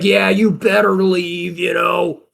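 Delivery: high, drawn-out imitation of an angry man; put-on angry send-off; mock angry. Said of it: "getting angrier and angrier".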